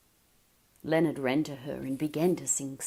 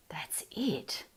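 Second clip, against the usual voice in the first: soft unvoiced realisation; whispered thought; 6 dB quieter than usual. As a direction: breathe it as a private thought. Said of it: "thought Leonard".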